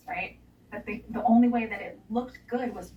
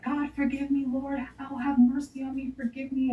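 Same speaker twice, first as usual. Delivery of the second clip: pleading higher, half-sobbing plea for forgiveness; retold tearful prayer; 5 semitones higher than usual. Retelling falling to the ground before the producer, tearful pleading. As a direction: beg God for mercy, voice lifted and tearful. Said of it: "and crying".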